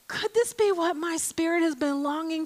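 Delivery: soft, hushed awe; awed wonder. Retold or imitated. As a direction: quietly wonder aloud. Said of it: "You either go, gasps".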